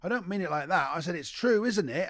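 retold protest. Retold protest to startled audience.

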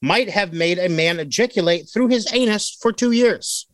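newscaster voice. Acted. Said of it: "This is my newscaster voice".

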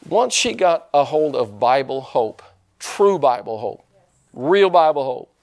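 stack the phrases and build; measured, rising insistence; building emphasis. Real, not acted. Escalating repetition in sermon.

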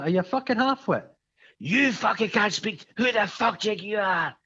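heated retort. Retold or imitated. Heated exchange retold.

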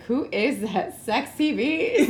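slow, sultry mock voice; sexy beast voice. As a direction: purr it out, teasing. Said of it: "podcast listeners will be like".

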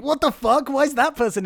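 mildly hammed-up disbelief, starting high; mock astonishment. Imitating an audience at surprise casting, mock astonishment. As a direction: imitate a baffled viewer.

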